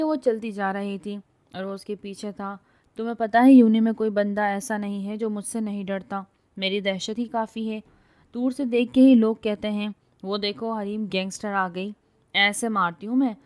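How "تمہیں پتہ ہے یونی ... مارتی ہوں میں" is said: loud swaggering brag; boasting. A narrator's reading. Girl brags about her reputation, loud swagger. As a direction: boast loudly about being feared. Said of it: "ڈنڈا گھما گھما کے بولی".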